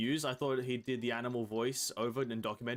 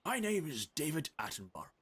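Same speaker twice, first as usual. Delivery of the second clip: hushed British wildlife narrator voice; David Attenborough. Pretend. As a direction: narrate it like a nature documentary. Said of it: "speaking like Mister Attenborough".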